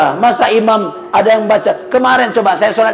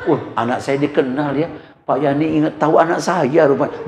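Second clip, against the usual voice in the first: mild proud father; 4 semitones lower, 3 dB quieter than usual. Retold or imitated. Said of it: "Bangga betul bapaknya".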